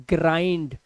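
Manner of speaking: ग्राइंड with a long "aai" vowel, set against ग्रिंड; correct pronunciation. Shown as a demonstration. Teacher showing the right vowel, a careful ग्राइंड. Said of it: "ग्रिंड नहीं पढ़ना है इसको".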